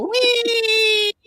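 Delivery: high, long squealing mock cry; poodle's falling cry. Poodle jumping out the window, high long squeal. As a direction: let a tiny falling dog squeal, high. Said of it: "you hear it go".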